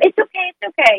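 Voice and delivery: put-on a parent soothing the child after an accident; reassuring. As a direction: hush the child with comfort. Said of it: "Instead of".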